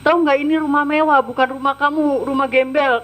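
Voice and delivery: retold scolding. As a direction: rattle off the boss's contempt quickly. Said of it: "maki-maki saya dengan perkataan kasar".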